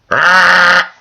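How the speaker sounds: a high loud yell out of nowhere; sudden loud high scream. Acted. Screams in a silly bit.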